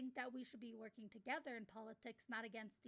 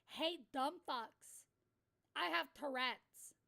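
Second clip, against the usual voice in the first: exasperated retort; 5 dB louder, much slower than usual. Retold or imitated. Retort to people policing his words.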